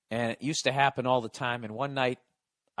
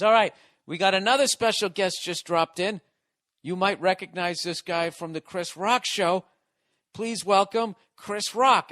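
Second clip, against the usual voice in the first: lightly hammed-up club host, a bit higher and louder; hyped host intro; 5 semitones higher, 3 dB louder than usual. Host hyping up the club crowd for Chris Rock, mock announcer voice. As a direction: build the crowd up for the big name. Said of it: "He goes".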